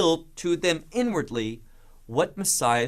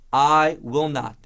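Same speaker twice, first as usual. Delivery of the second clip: louder, slow firm refusal; emphatic refusal; 5 dB louder than usual. Retold or imitated. Preacher voicing Peter's louder refusal. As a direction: plant the words, louder. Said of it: "which is emphatic".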